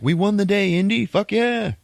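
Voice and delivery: very high, loud mock celebration; hammed-up triumphant squeal; retold victory cheer. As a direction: whoop it up as the winning team. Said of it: "they're like".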